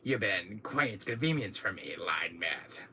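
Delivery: low, soft villain line; lightly voiced smug villain; Wesker impression. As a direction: purr it coldly at him. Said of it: "Do my thing with the glasses".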